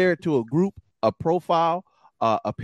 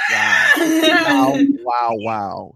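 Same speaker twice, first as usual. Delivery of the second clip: laughing surprise; 12 semitones higher, 8 dB louder, much slower than usual. Real, not acted. Shocked reaction to game name.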